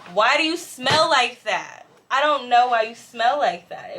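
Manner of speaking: emphatic, exasperated questioning; exasperated complaint. Retold or imitated. Complaining to a smelly stranger, exasperated. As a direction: complain in mock disbelief, leaning on each word.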